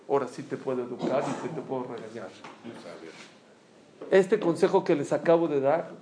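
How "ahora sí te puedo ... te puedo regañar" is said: low, soft and composed; free of anger. Retold or imitated. Teacher explaining the delayed rebuke, calm and low. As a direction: let the voice sink, all anger gone. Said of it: "mi corazón se liberó de coraje".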